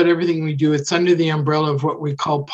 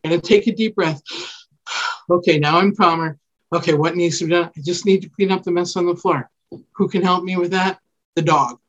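modeled calming self-talk; 2 semitones higher than usual. Shown as a demonstration. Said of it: "talk your way through the process".

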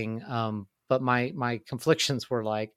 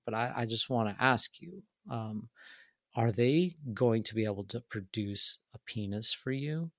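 real serious; 6 dB quieter than usual. Retold or imitated. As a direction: ask it gravely, as if confiding a delicate question. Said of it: "gets, like, real serious, and he, like, leans over".

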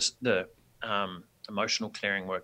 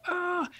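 imitated scream. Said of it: "People just starting yelling and screaming".

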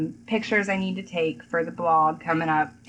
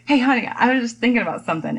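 fast eager chatter; 5 semitones higher, 4 dB louder, much faster than usual. Retold or imitated. Wife quoted waking husband.

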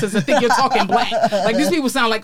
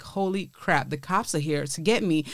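hushed panic; 6 semitones lower, 6 dB quieter than usual. Retold or imitated. Panicked inner thought, hushed.

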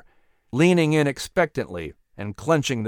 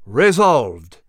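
loud, booming declaration; 4 dB louder, much slower than usual. Acted. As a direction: boom it out with anger. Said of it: "his voice boomed out".

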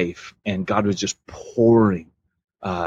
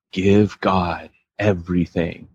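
slow, lower guided-meditation voice; imitated meditative track; 3 semitones lower, slower than usual. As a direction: mimic a meditative recording, unhurried. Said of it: "it was very meditative".

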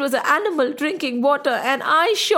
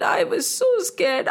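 acted fear; 7 semitones higher than usual. A narrator's reading. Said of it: "hands started trembling".

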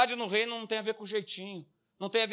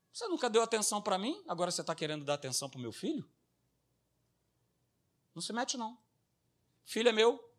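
daughter bitter; faster than usual. Retold or imitated. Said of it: "a filha virar e falar assim".

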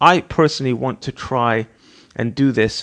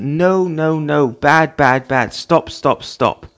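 mock scolding, a little louder; repeated scolding; 2 semitones higher, 4 dB louder, much slower than usual. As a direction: rap out no, bad, stop like a fed-up parent.

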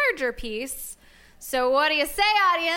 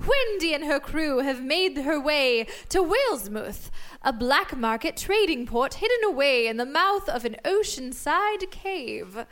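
story narration. Acted. Narrating episode recap.

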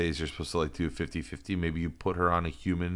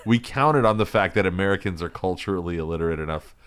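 a boss dressing down his waiter; hammed-up stern manager; mock restaurant boss; 3 semitones higher, 5 dB louder than usual. Restaurant boss scolding waiter Giuseppe.

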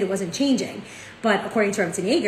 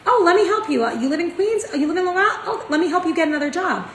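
much higher and louder, mock gushing eagerness; eager helper; 8 semitones higher, 4 dB louder, faster than usual. Woman at the training offering a new job, high and eager. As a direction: play the stranger bubbling over to help, with a laugh. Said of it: "she was like".

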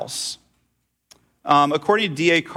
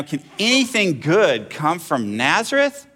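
incredulous; 4 semitones higher, slower than usual. Acted. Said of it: "exclaimed Nathanael".

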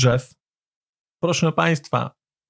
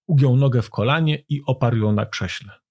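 usual speaking voice

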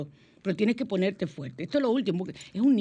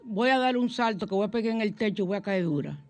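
mother's threat; 2 semitones higher than usual. Retold or imitated. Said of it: "el típico de nuestras madres".

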